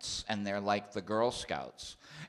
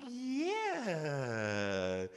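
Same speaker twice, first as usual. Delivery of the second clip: higher, drawn-out sunny yeah; light hint of a bright sitcom star; Mary Tyler Moore voice; 7 semitones higher, 4 dB quieter than usual. Comedian agreeing with the gym teacher in a light sitcom-star voice. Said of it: "in my best Mary Tyler Moore voice".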